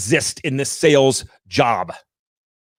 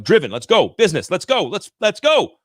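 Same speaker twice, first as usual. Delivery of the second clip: mock eager driver; 4 semitones higher than usual. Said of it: "I'm like".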